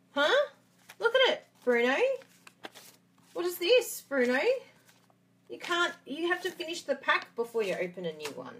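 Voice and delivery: a hint of a nagging wife, high and loud; sharp scolding wife. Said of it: "I sound like a nagging wife".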